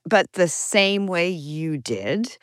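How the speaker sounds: drawn-out snarky comeback. Retold or imitated. Answering someone who keeps asking how she became Jewish, slow snark. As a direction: repeat it very slowly, with pointed snark. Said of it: "I've been as snarky".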